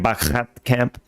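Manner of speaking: "Bachat" run together as one word; misread as one word. Shown as a demonstration. Player showing their own misreading, "Bachat" said as one word. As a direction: say "Bachat" as a single word, "back" and "at" fused. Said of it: "back and at looked like they're one word".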